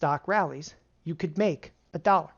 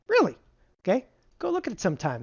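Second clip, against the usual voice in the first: mock disbelief; 4 semitones higher, faster than usual. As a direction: tease the crowd with surprise.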